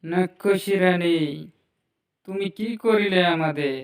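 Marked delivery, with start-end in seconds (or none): 0.0-1.2 slow, loud call to the queen. Acted. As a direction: call out to her, drawn out and loud. Calling out the demon queen. (ধীরে জোরে ডাক)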